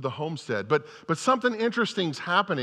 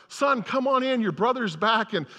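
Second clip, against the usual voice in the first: higher, gentle plea; father pleading with his older son; 6 semitones higher than usual. Retold or imitated. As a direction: coax him inside kindly. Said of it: "he pleads with his older son".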